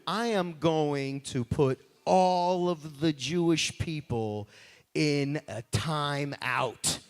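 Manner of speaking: slow, lowering scheming villain voice; mock villain. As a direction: spell out the evil plan slowly. Villain Haman announcing his plan.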